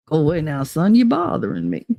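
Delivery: lightly voiced blustery cartoon rooster; Foghorn Leghorn. Replaying the rooster line for the chat, light Southern bluster. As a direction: shoo them off like a Southern rooster. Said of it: "Foghorn Leghorn".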